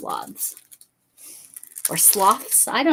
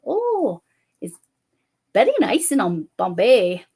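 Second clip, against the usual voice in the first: attempted Indian accent; 3 semitones higher, 7 dB louder than usual. Retelling a joke to the real estate agent, mock Indian accent. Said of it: "I said".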